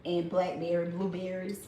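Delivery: crunching while talking; talking through a mouthful; mouth full. Real, not acted. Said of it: "for crunching in y'all ear".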